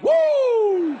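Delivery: high, loud whoop of relief; relieved woo. Retold or imitated. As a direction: cheer with joy as if he dodged a bullet. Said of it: "I'm like".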